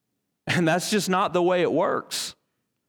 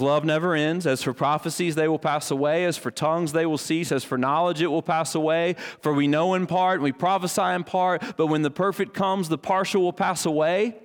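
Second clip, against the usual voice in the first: raised, measured Bible reading; scripture reading; 3 semitones higher than usual. Acted. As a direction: read the passage aloud with solemn lift.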